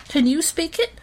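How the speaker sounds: indignant mouse boasting; protesting. Acted. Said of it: "protested Horatio".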